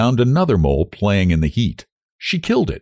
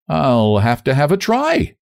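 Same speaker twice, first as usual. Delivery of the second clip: higher-pitched, mildly tense gallantry; tensely gallant; 7 semitones higher than usual. A narrator's reading. Young man courting her, tensely gallant. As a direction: offer it gallantly, a touch tense. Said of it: "rather tensely gallant".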